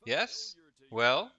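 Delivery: high-pitched and croaking, a lightly voiced nasty bookie. Arena host Patsy pressing the player for a bet, high and croaking. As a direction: wheedle like a croaking little weasel. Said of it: "He's got a nasty voice, high-pitched and croaking".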